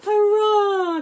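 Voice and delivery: high, loud joyful cheer; happy shout of victory. Acted. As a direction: cheer with relief. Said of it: "cheered the fish".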